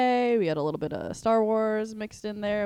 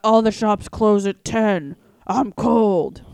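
mock whiny complaint; 8 dB louder, slower than usual. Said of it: "and then I got".

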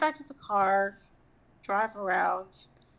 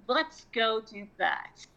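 eager idea; much slower than usual. Retold or imitated. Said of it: "And I'm thinking".

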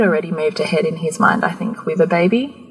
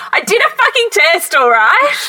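much higher, exasperated retold snap; 13 semitones higher, 4 dB louder than usual. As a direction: blurt it out, fed up with his questions. Snapping at pressing husband.

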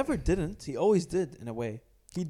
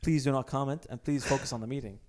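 prim rude reprimand; 9 dB louder than usual. Pretend. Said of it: "speak professionally, but you still have to sound rude".

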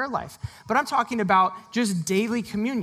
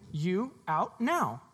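slow command; much slower than usual. Acted.

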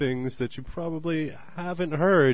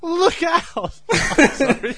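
high, loud panicked bird shriek; shrill screeching bird woman; 10 dB louder, slower than usual. Pretend. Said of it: "two birds that are in a heated argument".

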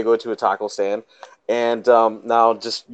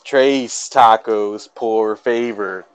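slow Southern-drawled Spanish; much slower than usual. Retold or imitated. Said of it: "I've actually been corrected".

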